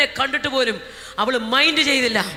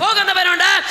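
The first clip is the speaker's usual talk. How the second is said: ordinary talk, nothing marked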